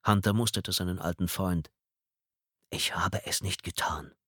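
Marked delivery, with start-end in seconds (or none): 2.7-4.1 trembling whispered plea; shaky breathless pleading. Acted. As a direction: whisper it, voice shaking. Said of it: "eindringlich und mit zitternder Stimme".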